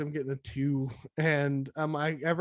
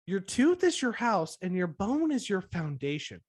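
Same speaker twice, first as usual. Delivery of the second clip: put-on talking to a child; 3 semitones higher than usual. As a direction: mimic a patronising hygienist. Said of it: "tuned it down from adult to child".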